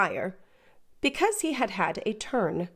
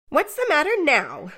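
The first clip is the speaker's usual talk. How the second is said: sharp, raised snap at the table; 8 semitones higher, 3 dB louder than usual. Acted. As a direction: bark the question at him. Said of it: "said she, smartly".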